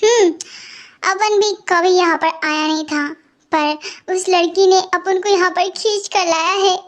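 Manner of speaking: street guy voice. Acted. Tapori friend character speaks.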